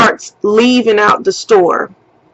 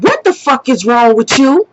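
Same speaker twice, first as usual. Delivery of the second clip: retold indignant demand in her own accent; angry confrontation. Woman confronting the man standing in the store, indignant. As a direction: confront him with rising disbelief. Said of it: "I'm going off on him".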